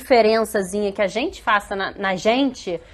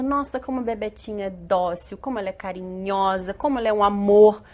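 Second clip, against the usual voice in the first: elogio carinhoso imitado. Retold or imitated. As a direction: gently coo over a little girl, imitated. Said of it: "eu cresci escutando". (elogio meigo, imitando os adultos)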